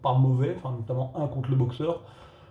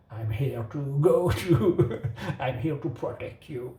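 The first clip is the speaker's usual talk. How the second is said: light imitation of a French-Belgian accent in English; mock the franco-belge English lightly, slow start; Van Damme accent; slower than usual. Reviewer mocking the bodyguard's line, in a lightly imitated franco-belge English accent. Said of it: "sauf Van Damme qui a un bel accent".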